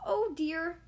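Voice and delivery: alarmed cry. Acted. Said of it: "cried Charlie".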